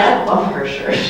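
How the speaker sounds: breathy admiring whisper; whispered inner voice. Retold or imitated. Audience member admiring the speaker's shirt, whispered. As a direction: whisper it like a private compliment. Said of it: "You're looking at me saying".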